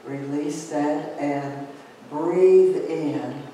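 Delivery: calm breathing guidance fading to a hush; guided meditation. Acted.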